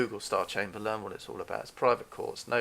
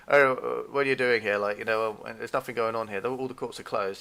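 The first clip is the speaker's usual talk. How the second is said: imitating a desk guard's Irish accent; lightly put-on Irish accent, louder at the start; 5 dB louder than usual. Desk guy challenging a visitor to the courthouse, Irish accent. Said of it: "in an Irish accent".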